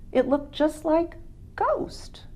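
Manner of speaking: hushed, slow, breathy whisper; spooky hushed storyteller whisper; eerie whisper. A narrator's reading. Eerie sighting of the dead dog.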